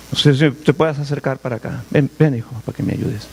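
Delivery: a hint of a frail blind father coaxing his son; blind old father. Preacher voices blind old Isaac.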